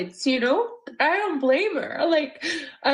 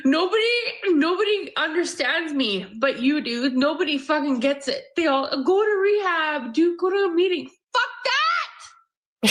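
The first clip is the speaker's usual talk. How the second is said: calm turning angry. Real, not acted. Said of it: "I'm trying to stay calm".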